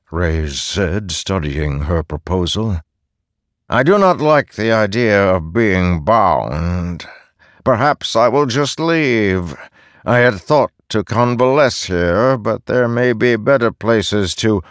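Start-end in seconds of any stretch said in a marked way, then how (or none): 3.7-14.6 higher, dismissive immortal; lightly voiced scornful god; haughty god voice. Reyes threatening to leave.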